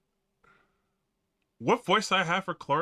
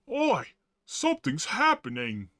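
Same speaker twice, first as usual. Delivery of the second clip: put-on sudden high "Oi" in a mixed British-style accent; a mash of two accents, barely held; 3 semitones higher than usual. Clarth exclaiming in a mixed, mock accent. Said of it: "maybe I should mix the accents".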